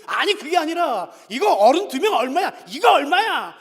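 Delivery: put-on old man demanding the price; retold shouting. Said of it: "하도 소리 지르니까".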